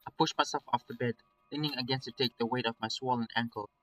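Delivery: measured first-person story reading; story narration. A narrator's reading. Streamer reading a nightmare tale to viewers, story narration. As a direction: read it as an inner monologue.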